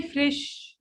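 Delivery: "fresh" with a short i, like "frish"; wrong fresh. Shown as a demonstration. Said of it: "don't say fresh".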